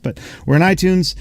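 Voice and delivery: high, beaming announcement; excited. Real, not acted. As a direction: grin through the news. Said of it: "I can't say without smiling".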